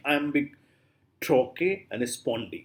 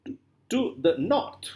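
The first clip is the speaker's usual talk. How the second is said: "to the north" with NORTH as the strong beat; two light words "to the", then stressed "north"; 6 semitones higher than usual. Shown as a demonstration. Teacher explaining unstressed prepositions and articles, stress on NORTH. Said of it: "So north is stressed".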